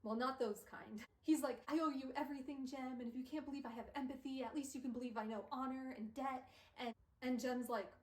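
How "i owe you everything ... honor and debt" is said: urgent acted pleading; panicked. Will insisting he owes his friend everything, acted panic. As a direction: plead your case in a mild panic. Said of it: "But Will is panicked".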